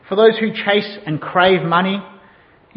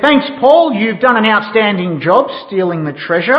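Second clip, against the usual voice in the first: lightly voiced captain congratulating his crewman; pirate captain praising; 3 semitones higher, 4 dB louder than usual. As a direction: play a captain handing out praise. Acted captain praising pirate in story.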